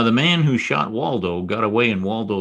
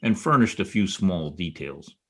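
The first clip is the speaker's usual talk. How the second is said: low, even private-eye voiceover over music; noir narration; 3 semitones lower than usual. A narrator's reading.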